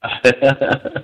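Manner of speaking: brief amused chuckle; short chuckle. Real, not acted. Host reacts to the introduction banter, short chuckle.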